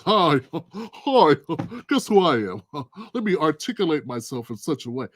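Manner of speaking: lightly put-on news anchor voice; mock CNN voice. Host showing what Trump didn't do, mock CNN voice. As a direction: gently parody an articulate TV newsreader. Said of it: "put on my C N N voice".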